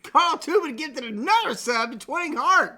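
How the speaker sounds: robotic alert voice; synthetic announcer reading alert; text-to-speech voice. Real, not acted.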